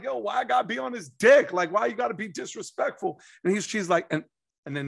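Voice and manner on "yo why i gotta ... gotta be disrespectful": retold host pushback.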